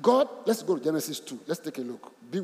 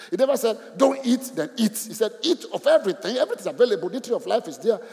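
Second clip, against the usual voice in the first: preaching with force; 5 semitones higher, 5 dB louder than usual. Real, not acted. Preacher drives home the point.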